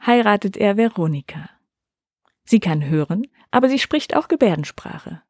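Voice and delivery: ordinary delivery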